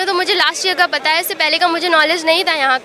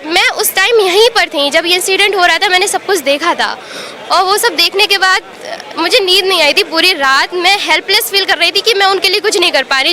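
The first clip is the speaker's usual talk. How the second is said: louder, urgent account of fear; upset and insistent, reliving what you saw; real distress; 4 dB louder than usual. Real, not acted. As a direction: pour out how scared you are, voice raised. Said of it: "मैं कितनी डरी हुई हूँ".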